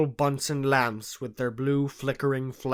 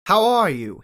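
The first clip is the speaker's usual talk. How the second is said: cordial; 5 semitones higher, 6 dB louder than usual. A narrator's reading. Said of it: "he said cordially".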